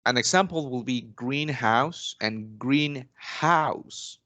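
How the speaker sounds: greenhouse said slowly, stress on green; slow, careful greenhouse, then greenhouse; stress contrast demo. Shown as a demonstration. Teacher showing the student compound noun stress, slow and careful. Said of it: "The stress usually falls on the first syllable".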